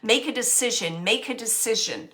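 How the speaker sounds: mock booming nag with a rolling pin; booming mother. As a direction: bark orders like a big-voiced mom. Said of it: "she's like this with a rolling pin, saying".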